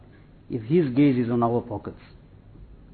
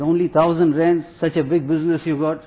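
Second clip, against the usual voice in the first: retold scornful complaint, raised in pitch and volume; mock indignation; 4 semitones higher, 4 dB louder than usual. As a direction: imitate a greedy collector balking at the sum. So-called shaykh scorns a small donation.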